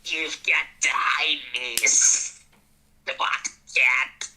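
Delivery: whispered hissing snake. Acted. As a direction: hiss it like a scared snake. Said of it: "who wants to do a snake voice".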